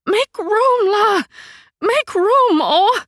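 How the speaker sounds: high, loud pushing shout; make room. A narrator's reading. Mother forcing her way into a packed car, shouting. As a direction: shove through with your voice.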